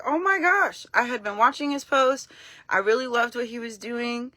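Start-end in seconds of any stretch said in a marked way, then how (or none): 0.0-0.8 high, squealing gasp of delight; starstruck, voice jumping up; fangirl excitement. Retold or imitated. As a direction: fan gushing over a message from him. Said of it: "I had a little fangirl moment".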